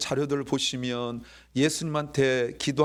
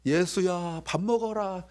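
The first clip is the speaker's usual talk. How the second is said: lightly voiced mum calling her child, pitched up; mother calling; 5 semitones higher, slower than usual. Mother calling young Jesus to a meal, acted calling. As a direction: call the child in to eat, higher. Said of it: "엄마가".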